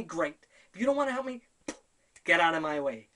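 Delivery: a fed-up rant building to a shout; losing it. Retold or imitated. To Lee after he says he has no hope, angry. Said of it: "And then I lost it".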